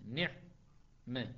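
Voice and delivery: نعمة drawn out very slowly, every letter separate; slow model word. Shown as a demonstration. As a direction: spell out نعمة slowly for students. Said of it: "النون مكسورة، العين ساكنة". (نطق «نعمة» ببطء شديد مع توضيح الحروف)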